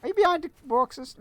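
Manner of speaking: high call. Real, not acted. Calling out to the voice.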